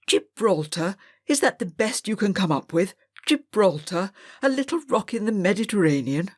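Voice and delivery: a lightly voiced stern old teacher, barking at a pupil; stern schoolmaster. Schoolmaster Mr Greville scolds Robert for writing nothing, sternly. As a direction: scold the idle boy like a strict master. Teacher scoffs then sets punishment.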